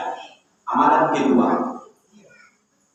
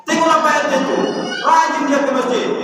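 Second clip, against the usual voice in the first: much higher, fast mock needling; nagging wife; 8 semitones higher, faster than usual. Wife comparing her husband to the neighbourhood head, pitched high. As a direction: needle him with a shrill comparison. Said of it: "nangis dia".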